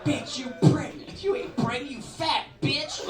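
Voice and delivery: big high yell, drawn out. Retold or imitated. Comic voicing a woman yelling on the Red Line, loud high shout. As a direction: shout it across the train car, hammed up. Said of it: "who talks like that".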